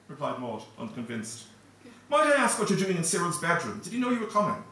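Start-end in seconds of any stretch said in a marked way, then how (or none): 2.1-4.6 suspicious lady. Acted. Maud questions a strange boy.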